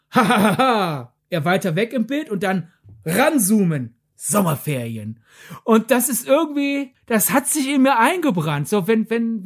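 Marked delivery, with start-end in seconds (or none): 0.1-1.1 mock cool laugh. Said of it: "du hast die Figur". 4.1-5.2 imitating pseudo-cool teen. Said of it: "du hast die Figur".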